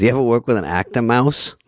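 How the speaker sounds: lightly imitated comic, rising question; John Lovitz. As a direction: ask it in character with a rise at "mouse". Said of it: "Then he goes".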